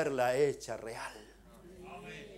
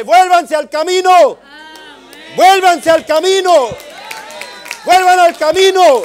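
gritos desesperados, mucho más agudos y fuertes; les grita con todas sus fuerzas que vuelvan; desperate shout; 24 dB louder than usual. Retold or imitated. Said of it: "Y yo empiezo a gritarle". (gritándoles en el sueño que vuelvan al camino)

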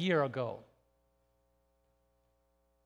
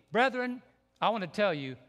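normal talking voice

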